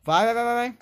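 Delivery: urgent excited shouting; being chased. Real, not acted. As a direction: yell them on as you flee. Fleeing a chaser in game.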